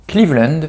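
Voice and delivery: "Cleveland" said the English way, KLEEV-lend; English pronunciation. Shown as a demonstration. Trying pronunciations of a name. (« Cleveland » prononcé à l'anglaise, « klivlènd »)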